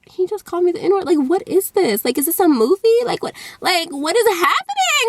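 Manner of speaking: baffled questions climbing in pitch to the last; retold confusion. Teller reliving being called a slur, confused disbelief. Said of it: "I was so confused".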